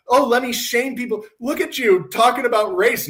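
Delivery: put-on accusing tone; mock shaming. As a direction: imitate someone scolding others in public. Mocks a people-shaming mentality.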